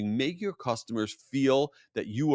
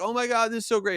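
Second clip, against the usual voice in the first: put-on much higher thrilled kid voice, "so" stretched; excited little daughter; 11 semitones higher, faster than usual. Daughter seeing Dora arrive at her party, high and thrilled. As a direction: squeal it like a delighted child. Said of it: "my daughter's like".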